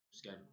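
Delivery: schedule with a hard SK start; American pronunciation. Shown as a demonstration. Learned the American way of saying it, schedule with SK. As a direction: say schedule as "SKED-jool". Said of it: "the American way of saying".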